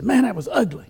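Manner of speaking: a hammed-up, high-pitched imitation of a fuming friend; imitating angry friend. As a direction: squeak it out like your hunting buddy fuming. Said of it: "And Jody was so mad".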